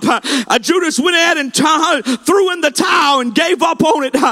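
impassioned revival preacher, driving without let-up; fervent altar-call preaching, rising in pitch; full-force preaching. Real, not acted.

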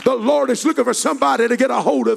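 loud, high, driving revival cadence; full-force preaching. Real, not acted. Preacher urging someone to cry for help, shouted in cadence. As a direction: pile up the pleas to a long shouted peak.

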